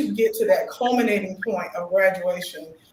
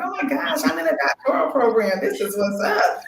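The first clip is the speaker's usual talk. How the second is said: excited. Retold or imitated. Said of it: "I'm like".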